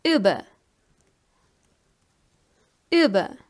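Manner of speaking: "über" opening on a long rounded ü; umlaut example. Shown as a demonstration. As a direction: say "über" as a careful German model word. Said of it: "For example".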